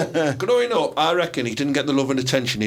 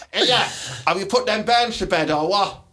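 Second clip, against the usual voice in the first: Teesside man voice; 4 semitones higher than usual. Pretend. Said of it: "had the Teesside man voice".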